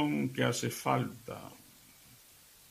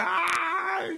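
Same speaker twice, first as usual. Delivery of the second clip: high yelp of pain, hammed up; pained cry. Hit husband cries out in pain, a high mock yelp. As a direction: yelp like the pan just hit you. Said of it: "empieza a dar gritos".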